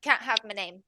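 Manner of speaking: put-on guarded girl with a light Irish accent; amateur Irish brogue, wary. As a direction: refuse in a put-on Irish lilt. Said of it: "heavy Irish accent".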